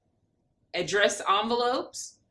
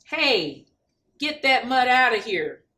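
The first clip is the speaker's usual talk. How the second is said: annoyed shout; 2 semitones higher, 5 dB louder than usual. Acted. Bill shooing the dog.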